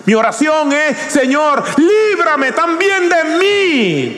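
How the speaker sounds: high, ringing pulpit voice, building; fervent preaching. Real, not acted. Preacher to his congregation, calling them to repentance, fervent and high. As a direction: preach it out to the whole church.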